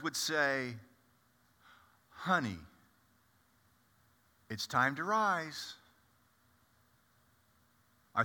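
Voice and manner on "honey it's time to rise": tender wake-up. Shown as a demonstration. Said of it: "a diminutive way of expressing to a little girl".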